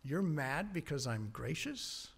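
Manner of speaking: soft, slow question rising on you're; God asking quietly and patiently; God gently answering angry Jonah, soft and slow; gentle God. Acted. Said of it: "And God comes back".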